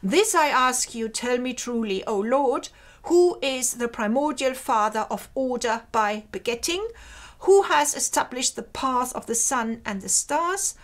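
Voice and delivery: solemn, measured hymn reading; reading the translation. Shown as a demonstration. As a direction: read it like an old prayer. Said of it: "let me read the translation".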